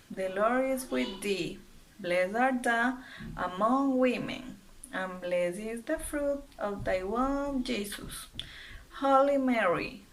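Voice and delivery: steady recited prayer, line by line; measured classroom prayer; prayer recitation. Acted. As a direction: lead the class through the prayer. Leads class in Hail Mary.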